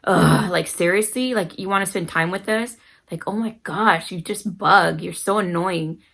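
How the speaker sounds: exasperated mock groan into complaint; eye-rolling annoyance. Mom mimicking rudeness to her son, eye-rolling annoyance. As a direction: act put-upon, with an audible eye roll. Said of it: "rolled our eyes at you and said".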